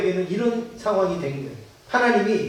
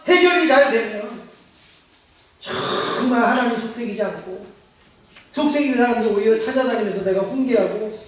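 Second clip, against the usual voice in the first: pleading prayer vow; 3 semitones higher than usual. Retold or imitated. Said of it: "별별 약속 우리는 다 해요".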